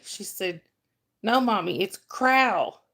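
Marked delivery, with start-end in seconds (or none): 1.2-2.8 "Corral" squashed into one drawn-out syllable, "crawl"-like; Southern pronunciation. Retold or imitated. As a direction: imitate a kid insisting, "Corral" said as "cral". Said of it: "you've learned the Southern version".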